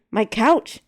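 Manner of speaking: loud dismayed yell. Acted. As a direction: yell at the ruined couch. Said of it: "J R yelled".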